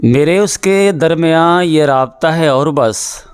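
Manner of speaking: measured ghazal recital with held pauses; poetry recitation. Acted. Poet recites his teacher's ghazal at the literary meet, measured and deliberate. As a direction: lay out each line for the gathering.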